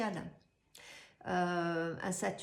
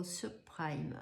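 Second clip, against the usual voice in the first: French-accented English word; shaky English accent; 4 semitones lower, 4 dB quieter than usual. Real, not acted. Astrologer naming the financial crisis to viewers, imperfect English accent. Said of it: "Excusez mon accent anglais".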